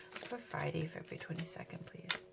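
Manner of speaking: soft whispered request; whispering. Real, not acted. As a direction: whisper it to the cards.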